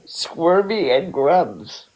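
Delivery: Squirmy and Grubs, drawn out at half speed; slow clear repeat. Real, not acted. Repeating the couple's name after "The what?", slow and clear. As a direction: spell it out slowly for someone who missed it.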